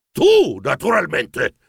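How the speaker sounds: slow, emphatic mild boom; thundering grandfather. Acted. Grandfather announcing the qualifier to his grandson, thundering. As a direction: thunder it out, stretching each word. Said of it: "tuonò il nonno".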